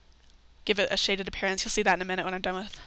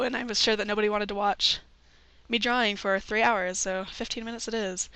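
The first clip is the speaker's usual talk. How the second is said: groggy just-woke-up voice; morning voice. Real, not acted. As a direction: still sleepy, voice not warmed up. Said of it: "If my voice sounds kinda weird, it's because I just woke up".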